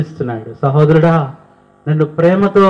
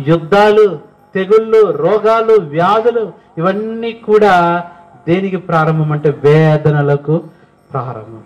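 building preaching; 4 semitones higher than usual. Acted. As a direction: hammer out each plague as a warning. Preacher lists the end-time plagues. (హెచ్చరికగా పెరిగే బోధన)

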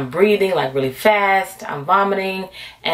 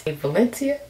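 slow, drawn-out warning from her spirit; a slow hint of an inner voice scolding her; much slower than usual. Her spirit warns her off the floor, slow and drawn out. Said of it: "My spirit says".

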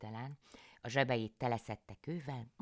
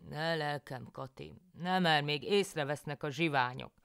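higher, urgent pleading; higher, urgent husband; husband János; 5 semitones higher, 6 dB louder than usual. A narrator's reading. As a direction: beg her to stop, afraid of robbers. János hushes Kati in tree.

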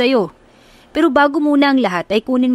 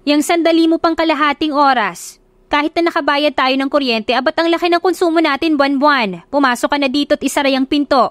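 a mom scolding about the aircon, voice pitched up; nagging mother; 6 semitones higher than usual. Acted. Mother calling to Agnes at the door, higher and nagging.

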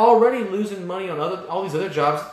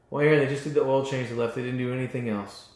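mock whiny objection; 7 semitones lower, 5 dB quieter than usual. Imagined objecting shop owner.

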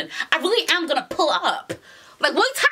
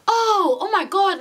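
high worried oh my God; mock panic; 9 semitones higher, 3 dB louder, slower than usual. Worried mother learns her son is missing, high alarm. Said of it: "she's just like".

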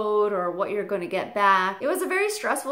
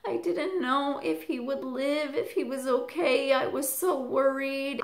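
tearful relief; 4 semitones higher than usual. Retold or imitated. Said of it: "she broke down crying".

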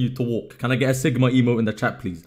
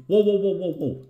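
quick startled whoas, then dropping off; 5 semitones higher than usual. Real, not acted. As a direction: caught off guard by a misclick. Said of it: "That was a misclick".

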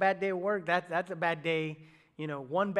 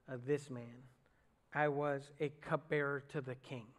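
prayer reading. Acted. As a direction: pray it out before God. Reads Nehemiah's long prayer.

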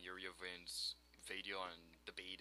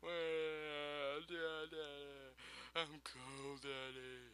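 put-on child voice; 7 semitones higher, much slower than usual. Voicing baby Goron in game.

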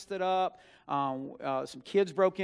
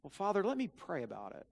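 mock pious stalling; 3 semitones higher than usual. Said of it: "what every son in that position would do".

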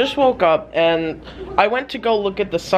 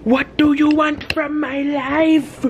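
higher, slow exasperated plea; mock exasperation; 7 semitones higher, slower than usual. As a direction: whine at the birds to go away. Shooing persistent seagulls.

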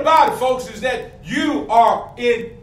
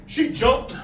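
laughing; 4 dB quieter than usual. Real, not acted. Laughing at the memory.

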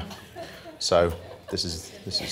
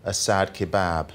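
sad poem reading. Acted. Comic poet reading a sad poem to the audience, solemn. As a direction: read it like a mournful elegy.

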